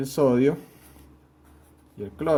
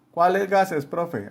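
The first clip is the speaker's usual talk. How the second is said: higher, eager pupil asking the profe; curious student; 6 semitones higher, much slower than usual. Retold or imitated. Teacher acting a student asking which gases, eager. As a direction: play a keen student who wants to know.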